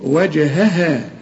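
وجهها slow, both هاء sounds clear; slow recitation. Shown as a demonstration. Teacher models the word slowly. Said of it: "طلعهم اتنين هي".

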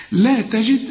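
"لا تجد" thin throughout, the final d bounced; light letters and a bouncing dal on "تجد"; thin with qalqala. Shown as a demonstration. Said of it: "كل الكلمة مرققة".

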